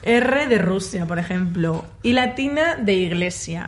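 slow letter-by-letter spelling. Shown as a demonstration. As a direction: spell each letter out with a place name. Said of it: "Voy a ir letra por letra".

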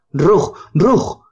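high yelping "Rug, Rug"; dog's bark. Acted. Scared dog Boris barks at the Rugs by the bin, high yelps. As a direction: bark from under the porch. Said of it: "gritaba Boris".

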